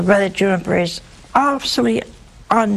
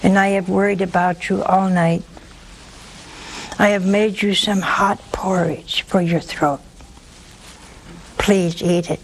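very calm. Acted. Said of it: "says very calmly".

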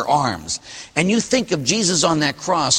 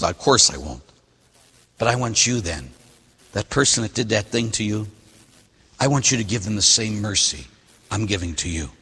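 soft, lower reassuring reply; gentle Father; 5 semitones lower, 4 dB quieter than usual. Acted. God the Father to the sinner, softly reassuring. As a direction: answer like a patient father.

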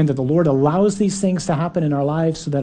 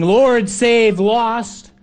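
yelled plea; 6 semitones higher, 4 dB louder, much slower than usual. Retold or imitated. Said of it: "has yelled back to Jesus saying".

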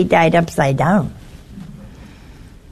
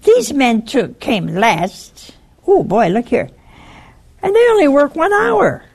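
grumbling; 4 semitones higher than usual. Retold or imitated. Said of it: "They grumbled".

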